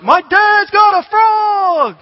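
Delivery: put-on very high, loud, slow kid's shout; kid's excited shout. Boy telling his friends about the frog, in a high excited shout. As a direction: yell it like a boy showing off his find. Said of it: "And Christian's like".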